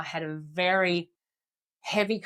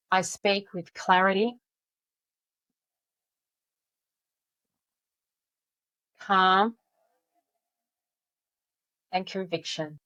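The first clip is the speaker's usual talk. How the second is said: slow calm affirmation. Shown as a demonstration. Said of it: "repeat the words after me".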